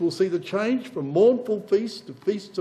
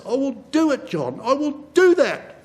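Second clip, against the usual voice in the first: voice of Yahweh; 8 semitones higher, 5 dB louder than usual. Retold or imitated. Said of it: "Yahweh of armies says".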